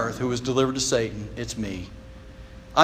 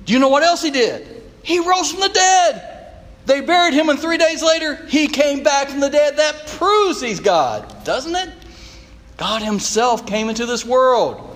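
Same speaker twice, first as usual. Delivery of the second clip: on a roll; 9 semitones higher than usual. Retold or imitated. Doctor eagerly explaining the resurrection to the pastor, excited and high. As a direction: tumble it out with growing enthusiasm. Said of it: "He was on a roll".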